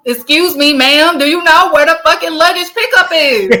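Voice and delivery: polite words that break into a laugh; laughing mock politeness. Laughing as he asks the airport worker where the luggage is. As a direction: sweet-talk her while cracking up.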